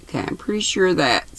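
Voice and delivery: drowsy, soft and hurried reread; sleepy voice, half asleep; nodding off. Real, not acted. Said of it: "I keep drifting off".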